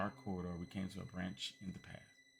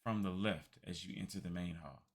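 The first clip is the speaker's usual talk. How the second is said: lightly voiced gracious old man; a polite old gentleman, pleased; courtly old man; 4 dB louder than usual. Old man greeting Lady Riddell, courtly.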